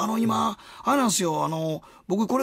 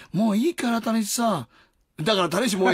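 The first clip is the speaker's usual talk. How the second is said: woman's voice; 3 semitones higher than usual. Retold or imitated. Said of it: "次にまた女の声で".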